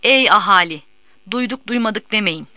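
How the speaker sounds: loud opening call, falling; town crier call. A narrator's reading. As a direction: cry it out to the square. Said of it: "Tellal'ın sesiyle irkildi".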